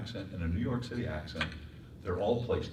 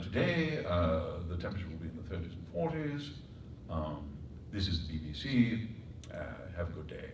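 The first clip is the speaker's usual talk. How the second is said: put-on old London announcer accent; vintage London radio accent; 1930s London announcer; 3 semitones lower, 5 dB quieter than usual. Shown as a demonstration. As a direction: read it as a 1930s London broadcaster. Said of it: "London announcer accent in nineteen thirty".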